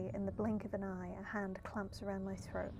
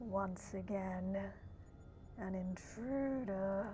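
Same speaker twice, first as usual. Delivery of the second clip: deep, very slow, pitched-down dropped voice. Voicing a character's line after ruling out a whispery voice: pitched-down voice. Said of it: "we're just gonna try and pitch down".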